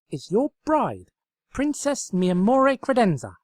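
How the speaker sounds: high, loud, eager scheming voice; high-pitched excited pony; excited Twilight. Acted. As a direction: pitch it up like a manic matchmaker. Twilight narrating her scheme.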